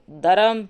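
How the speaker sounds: दरम with a plain d, no aspiration; Kashmiri mispronunciation. Retold or imitated. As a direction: say dharm as two-beat दरम, "daram". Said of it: "Kashmiri तो इन्हें बिल्कुल नहीं बोल सकते".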